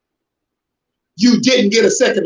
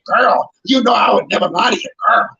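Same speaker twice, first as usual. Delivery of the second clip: lightly voiced gossip swearing it's true; a hint of a smooth gossip voice; gossiping friend. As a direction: play the sweet-talking friend passing on rumors. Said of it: "They was talking like this".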